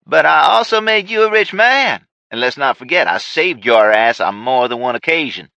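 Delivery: high, loud reminder of favors; villain boasting. Acted. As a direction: press the point like a boss. Ray argues with Paul.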